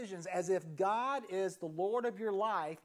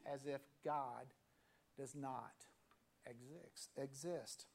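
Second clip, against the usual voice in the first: much softer on exist, trailing away; fading to near silence; 5 semitones lower, 8 dB quieter, slower than usual. Real, not acted. Preacher repeats his refrain to the congregation, trailing off softly. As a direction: let exist sink to almost nothing.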